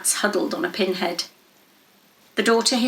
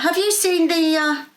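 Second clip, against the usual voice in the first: trailing question; 7 semitones higher than usual. A narrator's reading. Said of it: "question sagged into a little mutter".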